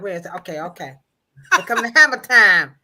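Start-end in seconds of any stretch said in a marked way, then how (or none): 1.6-2.8 hype announce. Real, not acted. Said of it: "she about to hit the hammer time".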